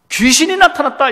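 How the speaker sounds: mock frightened cry. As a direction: cry out like startled disciples, without a full shout. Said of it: "이렇게 소리를 질러요".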